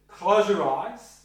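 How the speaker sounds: loud, slow "Close your eyes"; directive command. Shown as a demonstration. Therapist giving a blunt order to a client, loud. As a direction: order it firmly. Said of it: "Being directive".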